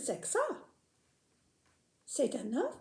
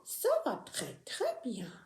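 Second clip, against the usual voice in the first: whispering; 4 semitones lower, 5 dB quieter than usual. Acted. Puppet whispers its answer.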